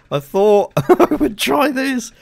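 high, drawn-out words with laughter; slow down and laugh through it; amused laughing. Real, not acted. Player admits it might have escalated, laughing high.

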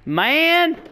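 high, loud outburst of exasperation; frustrated yelling. Real, not acted. Gamer cursing the guy he let get away, frustrated yelling. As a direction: wail it, stretching the last words.

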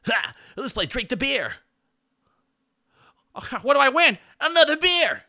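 put-on a giddy, half-drunk Quagmire; hammed-up Quagmire cheering for beer; Quagmire impression. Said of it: "My Quagmire's best".

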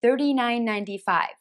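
"thirty-nine ninety-five" with the T as a quick D; flapped T. Shown as a demonstration. Teacher modelling fast price "thirty-nine ninety-five". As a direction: tap the T lightly like a D. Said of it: "特に聞き取りづらい".

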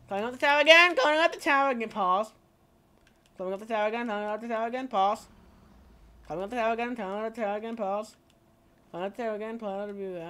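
put-on quick refrain in a poor Irish accent; bad Irish accent. Streamer climbing the tower again, bad Irish accent. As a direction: repeat it with a hint of fake Irish. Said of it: "shit-ass Irish accent".

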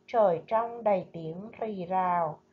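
slow, measured poem recital; poem reading. Acted. Teacher reading a poem to her pupils, slow and measured. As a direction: read the lục bát poem gently to the class.

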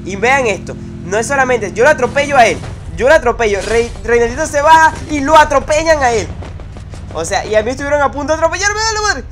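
loud, high, rushing disbelief; real over-the-top gamer excitement; excited yelling. Real, not acted. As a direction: shout it out in total hype. Excited replay of getting run over.

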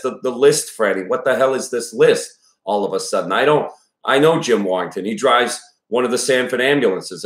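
a panicked husband losing it over the waitlist; frantic father nearly screaming at daughter. Acted. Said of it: "He was nearly screaming".

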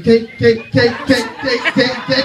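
rapid repeated beats, no gaps; sped up. Retold or imitated. Comic mimicking a sped-up TV walk, rapid repetition. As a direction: fire the word off in quick succession, imitating fast-forward. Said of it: "I can speed that shit up".

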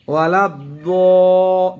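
ওয়ালাদ্দ- held slow and firm, the দ heavy, no দা sound; heavy dad without long a. Shown as a demonstration. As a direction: drag out the দ short and full, never দা. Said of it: "আমি দা কিন্তু বলি নাই". (ধীরে মোটা দ, আকার ছাড়া)

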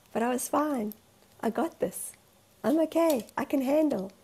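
imitated brave denial; insistent coping. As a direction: insist you are coping, acting out your past self. Acting out her past self's denial.

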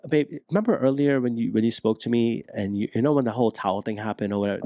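a calm husband circling back; calm talk. Shown as a demonstration. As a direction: bring it up gently without blame. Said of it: "When you come from a place".

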